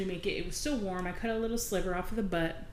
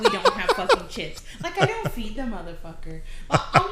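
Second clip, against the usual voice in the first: laughing exasperation; 2 semitones higher, 5 dB louder than usual. Real, not acted.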